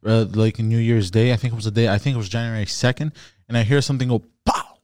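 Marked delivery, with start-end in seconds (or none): 4.4-4.8 imitated gunshot.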